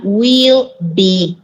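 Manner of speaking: very slow, drawn out will be; teacher spelling out the form; slow emphatic answer. Shown as a demonstration. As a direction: stretch each word for the class.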